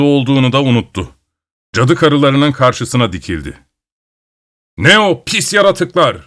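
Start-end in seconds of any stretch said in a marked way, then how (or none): 4.8-6.2 raised angry shout at the creatures. A narrator's reading. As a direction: yell it out in defiance. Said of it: "diye bağırdı".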